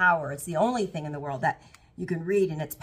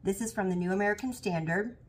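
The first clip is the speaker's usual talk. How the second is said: cough drop in mouth; 2 semitones higher than usual. Real, not acted. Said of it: "I have a cough drop in my mouth".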